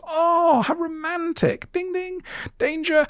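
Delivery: high, gushing mock swoon turning to a warning; high sing-song mock delight. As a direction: coo it in a high voice, then sound the alarm. Mocking everyone's gushing reaction.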